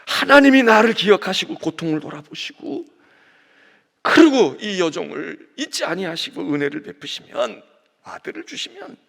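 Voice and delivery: loud pleading prayer; fervent cry. Acted. Preacher voicing Hannah, loud fervent plea. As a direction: cry out to God for mercy.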